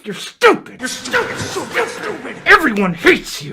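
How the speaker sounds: giggly high-pitched jeer; high laughing taunt. Real, not acted. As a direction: squeal the insult through laughter. Laughing insults at the meme.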